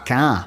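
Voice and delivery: "car" as an open kaah, no R. Shown as a demonstration. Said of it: "no R in it at all".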